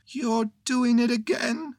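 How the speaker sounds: high bear voice, a touch of sadness; mildly sorrowful little bear; sad Pooh. A narrator's reading. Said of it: "said Pooh sadly".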